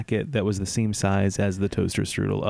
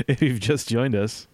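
host aside. Acted. Host addresses listeners.

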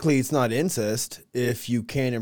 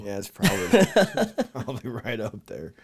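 laughing admission; 2 semitones lower, 4 dB louder than usual. Real, not acted. Laughing at teasing about himself.

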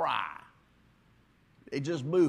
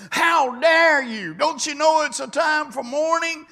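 hammed-up scandalized mourner; mock outraged mourner; 13 semitones higher, 13 dB louder than usual. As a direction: scold like an offended churchgoer. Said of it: "I upset them".

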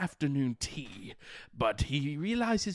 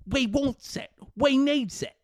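rough British Gollum; 8 semitones higher than usual. Acted. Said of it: "rough around the edges, British accent".

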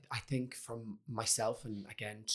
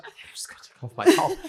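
fast, much higher, louder blurt; frantic blurt; 11 dB louder, much faster than usual. Retold or imitated. Telling sister at funeral he'll take top off, fast high blurt. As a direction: rush it out feverishly.

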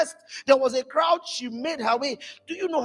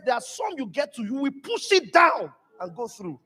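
raised, forceful preaching; pastor's declaration; 3 semitones higher than usual. Retold or imitated. Pastor Chris declaring breakthrough, forceful. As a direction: proclaim it, pushing through. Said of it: "He says".

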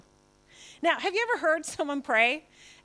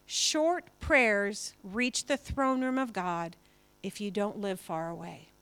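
quoting Jeannie; 4 semitones lower, slower than usual. Retold or imitated. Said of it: "Jeannie, she used to say this".

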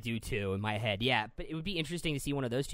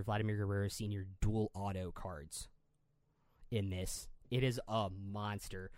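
sponsor ad read. Real, not acted. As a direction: list the products one by one, punching key words. Host reads a sponsor promotion.

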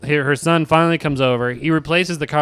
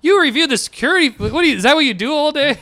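much higher, disbelieving; can't believe she watches the footage; incredulous; 12 semitones higher than usual. Retold or imitated. Retelling the reply to the landlord, high and incredulous.

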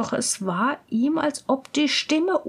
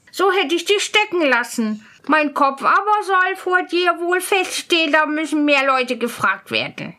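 put-on higher-pitched, undaunted young scholar; defiant student; 4 semitones higher than usual. Student refusing the spirit's threat, defiant. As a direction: stand up to the threat.

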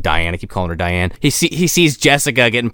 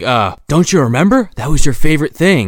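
mock insistent hero; 5 semitones higher, 4 dB louder than usual. Hero insisting she remembers.

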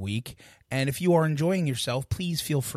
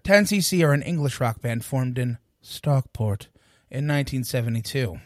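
a more emphatic, flowing second take of the band intro; corrected retake. Real, not acted. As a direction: redo the intro more briskly, running the opening phrase together. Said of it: "I said that wrong".

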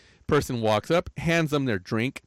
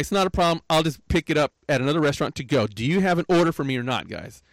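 raised, firm but not rude; louder, firm customer asking for an order; firm but polite; 4 semitones higher, 3 dB louder than usual. Shown as a demonstration. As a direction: press them for an answer, politely. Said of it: "I just said it just like you heard me".

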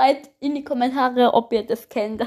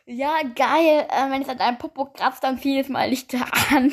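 trying not to laugh. Real, not acted. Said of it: "ich hab gelacht".

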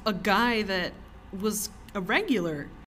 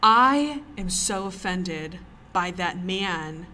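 slow, indignant and emphatic; offended woman complaining to the manager; indignant complaint; 4 dB louder, much slower than usual. Retold or imitated. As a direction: drag each word out, deeply affronted. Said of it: "And she goes".

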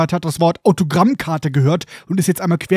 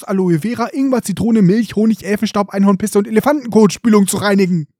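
hammed-up stylist voice, higher on Spliss; mock hairdresser; 4 semitones higher than usual. Narrator mocks Colin as a hairdresser, fussy and higher. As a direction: play a fussy hairdresser listing products. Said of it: "Steht er da mit so einem Kamm und guckt so".

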